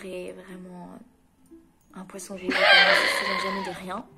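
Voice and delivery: bursting into laughter mid-sentence; laughing. Real, not acted. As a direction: laugh through the punchline. Joke punchline about friend.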